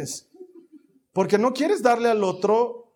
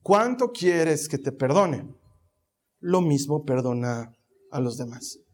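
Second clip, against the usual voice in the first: Jesus speaking; 5 semitones lower, slower than usual. Acted. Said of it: "Jesús ... te dice".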